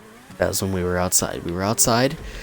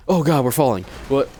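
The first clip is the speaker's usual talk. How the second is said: startled yelp; 4 semitones higher, 6 dB louder than usual. Real, not acted. Sudden real alarm.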